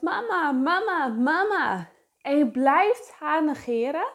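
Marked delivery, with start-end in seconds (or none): 0.0-1.9 lightly imitated calling child; sing-song repeated call, falling each time; child calling mama. Coach imitates a child wanting attention, calling out. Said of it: "die roept".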